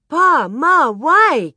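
high, loud calling question; anxious child asking. Acted. Carrie calling to Pa and Ma, asking urgently. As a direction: call out high to both parents. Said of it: "Carrie asked".

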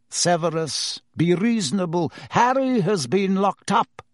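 calm an angry colleague down; lightly voiced pleading Fudge; pleading minister.

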